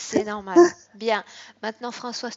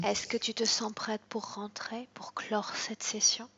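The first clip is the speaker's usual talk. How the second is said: whispered hypnosis. Acted. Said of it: "hypnotic guidance to client".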